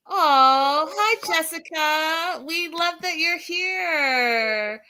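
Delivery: high, slow gushing welcome; excited greeting. Real, not acted. Host greeting a viewer who joins, excited greeting. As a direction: welcome her warmly and brightly. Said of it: "greeting a live viewer".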